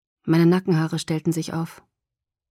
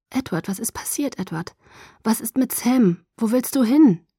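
anxious questions; 4 semitones higher than usual. Acted. Frightened questions while fleeing.

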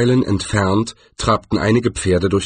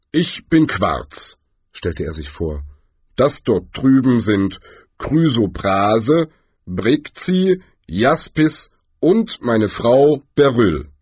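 langsame, bedächtige Trollstimme; Quarz der Troll; 3 semitones higher, slower than usual. Acted. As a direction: ein großer Troll stellt sich gemächlich vor. Quarz speaks slowly. (langsamer, bedächtiger Troll)

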